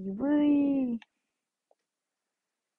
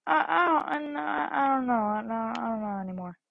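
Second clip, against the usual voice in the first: mock crying; 2 semitones lower than usual. Dubbed Sonic breaks down.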